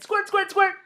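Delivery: squeaky high play squirt sound; high loud girlish squirt. Acted. Child pretending to squirt seltzer, high and loud. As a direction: squeal it like a kid playing. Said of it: "I said again".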